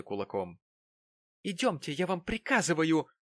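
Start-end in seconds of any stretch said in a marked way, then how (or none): 1.4-3.1 higher, louder squealed order; shrill command. A narrator's reading. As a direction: screech the order, dragging him off. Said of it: "взвизгнула".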